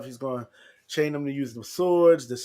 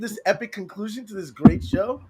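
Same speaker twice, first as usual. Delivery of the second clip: incredulous; 7 semitones higher than usual. Retold or imitated. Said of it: "I'm like".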